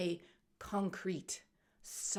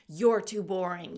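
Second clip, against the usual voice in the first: louder, punched-out mock taunt; spitting out insults; 6 dB louder than usual. Rock woman taunts the walker, spitting out words. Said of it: "starts spitting out these words at you".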